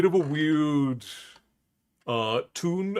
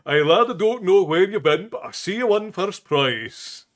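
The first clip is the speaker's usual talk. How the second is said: a touch of startled, quicker Scotsman's exclamation; 6 semitones higher, 6 dB louder than usual. Acted. Drunken Scotsman gawking at himself behind the bush, mildly startled. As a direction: blurt it out, mildly startled by what he sees. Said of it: "in a startled voice he says".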